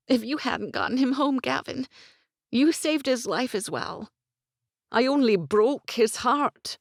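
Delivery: put-on high, urgent young woman, near tears; young woman's voice. A narrator's reading. Gwen voiced, pleading.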